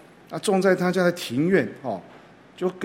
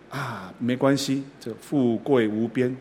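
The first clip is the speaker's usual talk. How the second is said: softer and slower, a gentle reassuring reply; 3 dB quieter, slower than usual. Shown as a demonstration. Reassuring the friend gently, soft and unhurried. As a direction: ease the blow kindly, taking your time. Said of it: "因为能够温柔体贴、慢".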